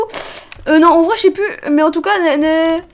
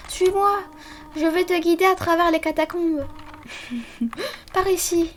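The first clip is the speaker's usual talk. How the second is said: softer, kindly guardian voice; gentle motherly voice; 5 dB quieter than usual. Acted. Streamer voices Toriel greeting the fallen child, softer. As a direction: speak softly like a caring mother. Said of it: "je vais lui donner une autre voix".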